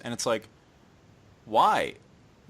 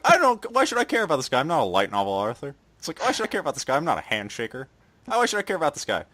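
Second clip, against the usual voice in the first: mocking whine; faster than usual. Mocking friend's complaint.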